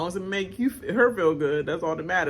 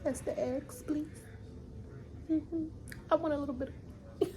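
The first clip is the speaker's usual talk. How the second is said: mock prim request; 8 semitones higher, 12 dB quieter than usual. Danielle asks for eggs.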